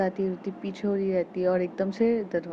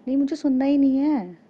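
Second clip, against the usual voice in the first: sharp, louder and higher refusal; angry refusal; 7 semitones higher, 5 dB louder than usual. Acted. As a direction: snap it out, shutting her down. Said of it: "Kiara कहती है". (गुस्से में तीखा इनकार)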